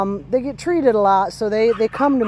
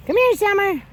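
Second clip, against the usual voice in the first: high happy call; 10 semitones higher than usual. Real, not acted. Owner calling her puppy back, high happy call. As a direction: pitch it way up, bright and inviting.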